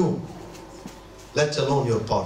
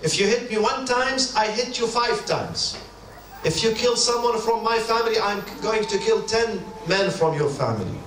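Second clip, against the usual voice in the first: higher, a hint of a vengeful tribesman; lightly voiced vengeful tribesman, pitched up; tribal avenger voice; 5 semitones higher than usual. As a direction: voice the tit-for-tat boast, lightly raised. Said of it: "They believe in retaliation".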